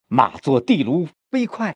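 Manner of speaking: 地卢 weighted, 飞快 let go quickly; stress on 地卢. Shown as a demonstration. Teacher corrects student's horse line, stress on 地卢. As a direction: hit 地卢, keep 飞快 moving. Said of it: "不是飞快就很慢了".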